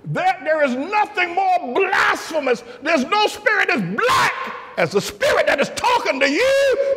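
high, slow, shouted preaching; high shouted preaching, slow and hammering; full-force preaching. Real, not acted. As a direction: thunder it from the pulpit.

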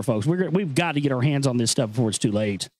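ordinary delivery

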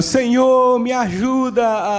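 súplica encenada; pessoa orando. Acted. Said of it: "A pessoa tá lá orando".

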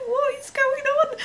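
high, slow, laughing gasp of disbelief; can't believe it, laughing; shrieking with laughter. Retold or imitated. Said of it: "I was just like".

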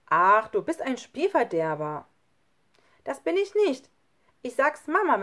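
loud, upset protest; angry child. Acted. Lukas scolding Schlunz, threatening to tell Mama, loudly upset.

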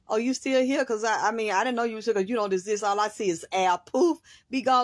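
loud, high, scornful brush-off; haughty dismissal. Retold or imitated. Mama dismissing an unwanted man, high and loud with scorn. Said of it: "turn her head".

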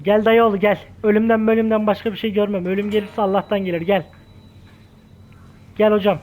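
loud, cocky come-on; taunting call. Real, not acted. Taunting the boss into the duel.

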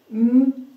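each letter sounded out separately; sounding out words. Shown as a demonstration. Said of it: "let's sound out the word man".

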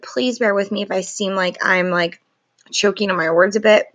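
talking through a sore throat; strained, sore-throated voice. Real, not acted. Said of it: "My throat is really hurting".

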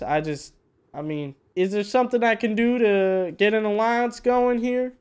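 put-on southern accent as a disguise. Player asking neighbors for an alliance, southern accent. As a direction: negotiate in a folksy southern accent. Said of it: "talk in my southern accent".

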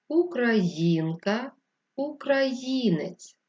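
each word drawn out on its stressed vowel; stressed syllables emphasised. Shown as a demonstration. Teacher reading the word list, stressed syllables stretched. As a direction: lean long and hard on every stressed syllable. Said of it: "голосом виділяючи наголошений склад".

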